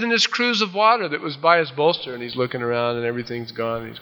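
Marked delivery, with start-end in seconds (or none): 0.0-2.1 high taunting call; playful raised-pitch holler; mock chiding. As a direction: keep needling from afar. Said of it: "he chides Abner".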